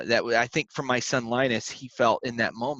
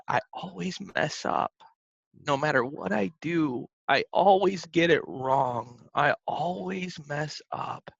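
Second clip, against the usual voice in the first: put-on higher, small voice of a tearful toddler, last lines slower; mild imitation of crying child; 5 semitones higher than usual. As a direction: echo the little boy's despair, understated. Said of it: "was just bawling his eyes out".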